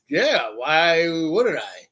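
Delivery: slow, drawn-out puzzled answer; baffled reply. Retold or imitated. Grandson questioned by grandma, slow baffled reply. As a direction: stretch it out, swooping, mock puzzled.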